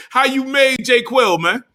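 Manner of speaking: slow, high, laughing through the words; laughing taunt. Real, not acted. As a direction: laugh at him while you say it.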